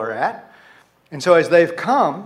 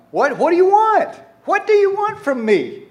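very high, loud acted plea; exasperated spouse; 13 semitones higher, 5 dB louder than usual. Accused spouse answering the complaint, exasperated. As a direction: throw it out as an exasperated, mock-desperate protest. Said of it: "And the spouse says".

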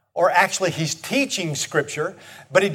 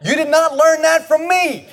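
high-pitched mock outrage, laughing; mock indignant reply; 10 semitones higher than usual. Mock scolding of family members, high and laughing. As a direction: scold them in a high, mocking voice. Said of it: "I'm like".

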